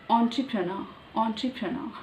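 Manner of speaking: ENTREPRENEUR as "on-tri-pruh-NUH"; careful pronunciation. Shown as a demonstration. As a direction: say ENTREPRENEUR carefully, final R dropped. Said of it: "difficult for me to pronounce".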